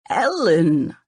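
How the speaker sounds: a touch of a husband's warning, firm; mild scolding. Acted. Husband scolds wife for overstepping, mildly. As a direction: say her name as a light rebuke. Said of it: "scolding his wife for overstepping".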